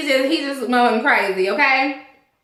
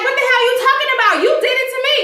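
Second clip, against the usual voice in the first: imitating Marcy; 9 semitones higher, much faster than usual. Marcy snapping back, retold.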